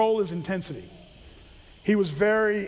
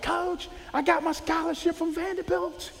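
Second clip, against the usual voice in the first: higher excited announcement; excited player; 8 semitones higher, 4 dB quieter than usual. Retold or imitated. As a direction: blurt out the big news to coach. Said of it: "It's like".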